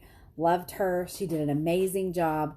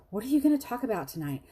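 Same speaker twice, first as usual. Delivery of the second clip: lightly voiced teammate, higher and quicker; quick, higher quote of a chatty caller; teammate's question; 6 semitones higher, faster than usual. Teammate phoning her in the waiting room, asking excitedly. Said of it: "She's saying".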